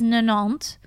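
"ninante" said as French nonante; Swiss French pronunciation. Shown as a demonstration. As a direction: say "ninante" in French, stress on the ending. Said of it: "I say it the Swiss way".

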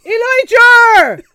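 long, high West Country shout; drawn-out holler in a West Country accent. Pretend. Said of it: "my West Country accent".

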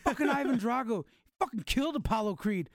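yelling excitedly at her; excited shout. Retold or imitated. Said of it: "So I'm like".

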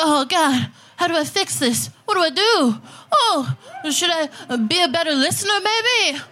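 whiny worried husband, mocked; half-hearted panicky dude voice; mocking straight dude. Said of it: "straight dudes walking around with their marriages crumbling".

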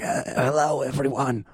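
a hint of a grand retired soprano greeting; mock Broadway soprano. Host mimics his hoarse voice as a retired soprano, mock operatic. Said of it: "sounded like a retired Broadway soprano".

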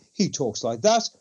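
a hint of Wakefield's casual tone, lightly voiced; imitating the first of his two tones; Wakefield's everyday tone. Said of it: "he only ever talks in two tones".

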